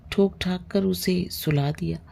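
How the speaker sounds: usual speaking voice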